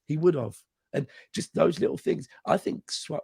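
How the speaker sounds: hoarse, worn-out voice; talking through a shot voice; lost voice whisper. Real, not acted. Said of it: "sorry about my voice, it's really gone".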